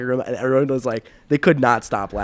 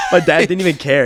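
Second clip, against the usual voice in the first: laughing; 6 semitones higher, 8 dB louder than usual. Real, not acted. Laughing while telling.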